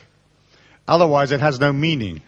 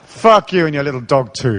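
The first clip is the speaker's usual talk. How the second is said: playful misquote; 4 dB louder than usual. Retold or imitated. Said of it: "that lovely line".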